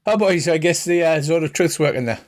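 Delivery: a friendly Irish priest welcoming strangers; Irish accent. Acted. Father Dougal welcomes the axe-carrying fighter, light Irish accent. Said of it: "pretend Colin Farrell accent".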